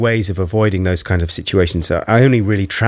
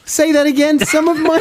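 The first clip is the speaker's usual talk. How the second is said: laughing disbelief. Real, not acted.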